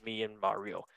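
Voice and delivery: Chris Pratt voice. Retold or imitated. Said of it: "I forgot to do the Chris Pratt voice again".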